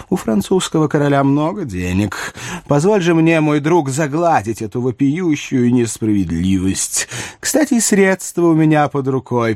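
a hint of a wheedling royal; coaxing king. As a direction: gently press a gift on a friend. Narrator voices King Louis.

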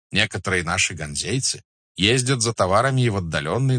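lightly voiced merchant, lively and courteous; купец-ганзеец. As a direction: present your trade proudly to a khan. (слегка сыгранный учтивый купец)

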